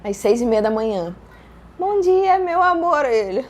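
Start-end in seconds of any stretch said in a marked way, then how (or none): 1.8-3.0 high, loud sing-out to a partner; acted cheery greeting. Woman waking her partner with a surprise, acted cheery greeting. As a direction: imitate an over-bright wake-up call.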